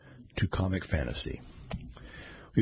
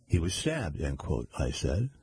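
even, measured reading voice with spoken quote marks; story narration. A narrator's reading. Reader narrating a mystery story to listeners, steady storytelling. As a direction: read it like an audiobook narrator.

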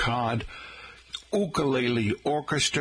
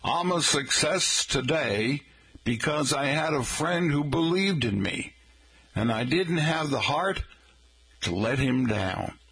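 put-on light Southern accent, a folksy Abe Lincoln; a touch of Southern accent for Honest Abe; Abe Lincoln impression with a Southern accent; 4 semitones higher than usual. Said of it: "I'll do my best Abe impersonation".

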